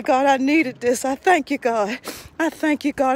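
earnest spoken prayer to God. Acted. Praying aloud over her student Joshua, earnest. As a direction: pray over him, sincere and steady.

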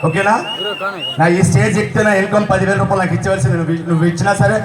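imitating Chandrababu Naidu addressing the crowd; Chandrababu Naidu impression. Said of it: "Chandrababu Naidu voice చేద్దామని". (చంద్రబాబు నాయుడు గొంతు అనుకరణ)

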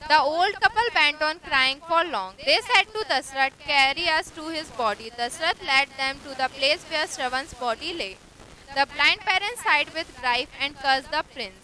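unhurried reading of the story text; slow story reading. A narrator's reading. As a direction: read it slowly, word by word, for learners. Slow English reading aloud.

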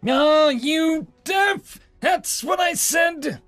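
high, loud screaming insult; furious shriek. Acted. Entitled human shrieking at the officer, loud and high. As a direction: yell at her as if she's deaf.

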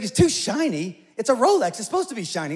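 incredulous, it's a Rolex after all; mock-exasperated Howie protesting to Terry. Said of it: "He's like".

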